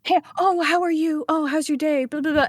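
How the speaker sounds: high, gushing small talk; put-on customer-service chirp; chirpy server impression. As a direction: mimic an over-friendly American server. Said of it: "tip culture where they're like".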